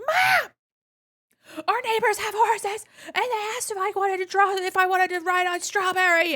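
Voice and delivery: put-on high, loud excited child calling out; running home shouting the news to mom, excited; excited kid shout. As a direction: yell it to mom like an eager kid.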